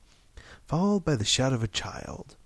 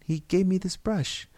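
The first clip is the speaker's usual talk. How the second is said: trying to explain; 8 semitones higher than usual. A narrator's reading. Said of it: "Mary tried to explain".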